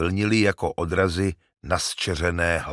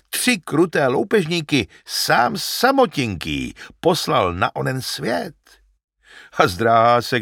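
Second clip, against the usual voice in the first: put-on old shepherd; 5 semitones higher than usual. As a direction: boast of the hero to his son. Narrator voices the shepherd.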